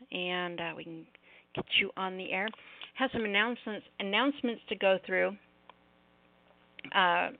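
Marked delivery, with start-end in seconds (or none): 2.9-7.3 slurred speech after jaw surgery; words mumbled through a stiff jaw; talking funny after jaw surgery. Real, not acted. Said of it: "Yes, I'm talking funny".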